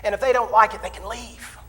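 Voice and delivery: imitating a counselor's firm telling-off; stern lecturing. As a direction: lay down the law, word by word. Counselor lays down truth to minister.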